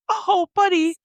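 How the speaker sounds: high-pitched cooing mock sympathy; put-on sweet, high voice; gushing sweetly. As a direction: coo it like you're touched. Acts out intended sweet reply.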